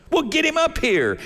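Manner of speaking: high, loud order; a king demanding Joseph; commanding Pharaoh. Acted. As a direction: snap the command at the servants.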